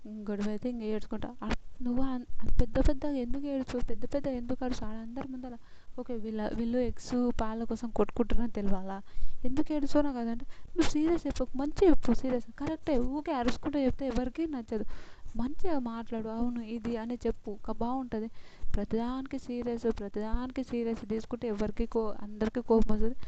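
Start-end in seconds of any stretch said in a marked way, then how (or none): 1.4-10.1 louder, exasperated telling-off; mock-stern rebuke, somewhat raised; retold scolding. Scolding someone for crying loudly. 10.8-23.2 emphatic mock lecture; retold lecture. Lecturing Asiya to speak calmly.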